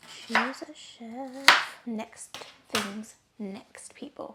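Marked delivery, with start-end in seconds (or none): 0.1-1.8 hyped-up shout. Pretend. Announces herself as a chef.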